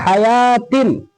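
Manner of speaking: हयातिन with a long "yaa", falling at the end; correct silent-waw reading. Shown as a demonstration. Teacher reading the next example, waw silent. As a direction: read हयातिन without any "waa". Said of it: "यहाँ पे हयावातिन नहीं पढ़ेंगे".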